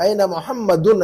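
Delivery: मोहम्मदुन with its last vowel and n voiced; final -un sounded. Shown as a demonstration. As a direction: say मोहम्मदुन with the final "-dun" fully pronounced. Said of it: "ऐसा कहिए".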